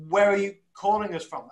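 upbeat call-in host question; radio DJ voice. Real, not acted. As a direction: ask it like a late-night radio DJ. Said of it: "I sound like a radio D J".

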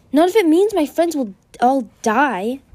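high, loud protest; anguished cry. A narrator's reading. Moon argues to save her friends, crying out. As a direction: cry out with desperate force. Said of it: "Moon cried".

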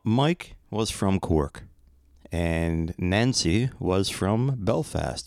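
put-on slipping slowly into an Irish accent; drawn-out Irish lilt on the place names. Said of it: "going into these accents".

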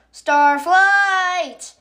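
high, loud shout of Starflight, falling at the end; yelled name. Acted. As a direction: call Starflight urgently, corrected name. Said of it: "she yelled".

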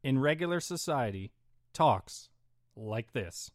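lightly hammed Shatner-style pauses on every phrase; halting, dramatic news anchor delivery; mock reporter cadence. Shown as a demonstration. Ranting podcaster mocks reporters with a mild Shatner pause cadence. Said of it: "The way reporters talk".

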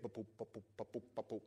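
soft rhythmic ba-boop pulse noise; imitated pounding pulse. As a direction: mimic blood pressure throbbing, quietly. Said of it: "like blood pressure, head red".

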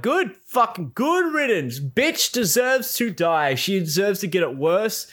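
high, indignant good-riddance rant; worked-up, scornful outburst pitched high; furious. Retold or imitated.

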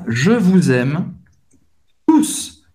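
slow "Je vous aime", then "tous" jumping up; correct phrase. Shown as a demonstration. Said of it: "O melhor seria". (frase correta, devagar)

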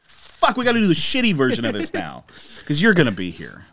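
put-on resent the kid tagging along; annoyed groan. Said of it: "And you're like".

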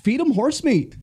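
high, put-on voice for the punchline; mock parent voice. Host hamming up the parents' cure in a high voice. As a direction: squeak it out like a cartoon parent. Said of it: "That was amazing".

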